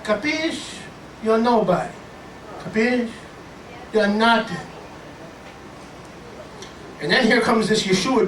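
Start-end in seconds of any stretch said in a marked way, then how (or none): 0.0-4.7 hammed-up Italian-American tough talk; Italian-American put-down. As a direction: belittle him in a mock Italian-American accent. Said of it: "For your Italian family".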